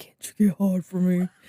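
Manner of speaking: put-on gruff, rough male voice. Retelling a story, quoting a man in a parking lot: gruff man's voice. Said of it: "A gruff man's voice".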